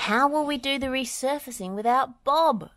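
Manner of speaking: high-pitched worried question; anxious character voice; fretting. A narrator's reading. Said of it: "fretted Scoop".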